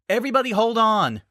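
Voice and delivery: urgent shout. Acted. Twilight warns friends before cannon fire, urgent shout. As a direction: yell at the crew to brace. Cannons aimed at their boat.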